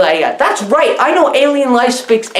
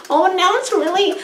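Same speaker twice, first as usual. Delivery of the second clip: mock worry; 5 semitones higher than usual. Retelling panicked character dilemma.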